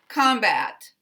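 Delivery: "combat" with COM strongest, bat secondary with a full vowel; stress on first syllable. Shown as a demonstration. Teacher giving the first example, "combat" stressed on COM. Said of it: "it has the primary syllable on the first syllable".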